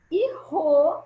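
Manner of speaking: "ro" said as its own syllable; syllable split. Shown as a demonstration. Teacher finishes splitting carro, saying "ro" alone. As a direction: give "ro" on its own, apart from "Car". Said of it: "como a gente separa carro?".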